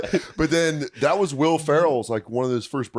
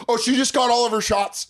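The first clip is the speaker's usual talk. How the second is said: nervous high voice; 11 semitones higher than usual. Retold or imitated. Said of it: "I went like this".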